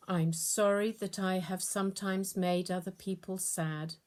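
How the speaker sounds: put-on gentle prayer read aloud to children. Teacher leads the children in prayer, gentle prayer voice. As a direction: lead the class in a simple prayer.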